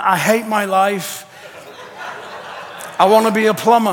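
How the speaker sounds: laughing, exasperated Peter; half-laugh the complaint in Peter's voice; panicky Peter, laughing. Retold or imitated. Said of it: "He's walking around going".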